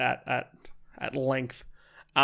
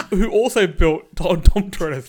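laughing; 4 semitones higher, 8 dB louder, slower than usual. Real, not acted. Laughing tease about merchant voice.

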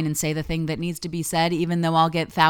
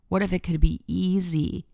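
gentle Ireland voice; 3 semitones higher than usual. Retold or imitated. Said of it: "Ireland was like".

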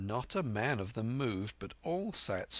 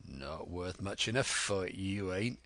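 Silver, scornful. Acted. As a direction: belittle them as their captain.

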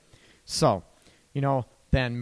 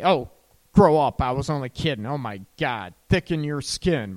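snapping back at a hurt partner, dismissive; 7 dB louder than usual. Retold or imitated. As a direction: wave off their feelings with a scoff. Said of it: "is your partner gonna say".

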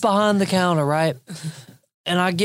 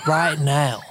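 lightly voiced stern father; imitating the dad's demand; 9 semitones lower than usual. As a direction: lower mock father demand. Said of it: "the dad hops behind the counter and says".

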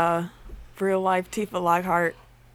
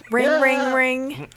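phone ring; 5 semitones higher, much slower than usual. Pretend. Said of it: "be a phone for you".

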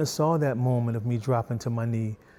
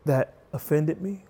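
calm dad. Retold or imitated. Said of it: "This time I said".

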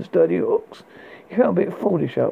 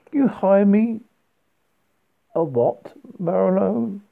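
through clenched teeth; 5 semitones higher, slower than usual. Acted. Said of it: "asked behind the clenched teeth".

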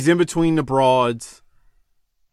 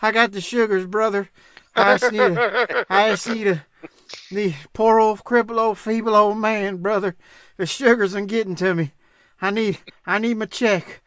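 put-on feeble old man voice; 3 semitones higher than usual.

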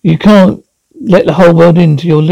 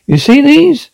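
shrill demand; 9 semitones higher than usual. Acted. Wife shows wrinkles angrily.

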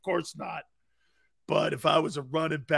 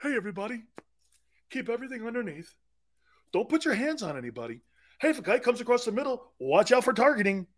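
Gannon; 5 semitones higher, faster than usual. Retold or imitated. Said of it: "Gannon's scheme is Pee Wee football".

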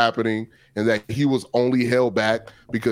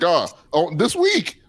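mock Perkins; 6 semitones higher than usual. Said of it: "He was like".

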